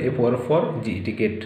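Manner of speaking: letters first, then each syllable: "for", "গেট". Shown as a demonstration. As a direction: spell out "for", then "গেট", as separate chunks. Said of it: "syllable ভাগ করে". ("for" আর "গেট" syllable ভাগ করে বানান করা)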